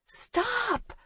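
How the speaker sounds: high, distant muffled order; shouting from far off a phone; muffled command. A narrator's reading. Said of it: "a muffled voice commands".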